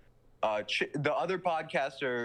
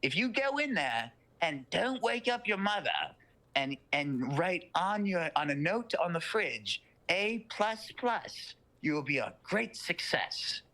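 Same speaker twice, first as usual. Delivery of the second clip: Southern devil; 6 semitones higher than usual. Retold or imitated. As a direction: stretch out A plus plus like a folksy bargain. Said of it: "the Southern guy goes".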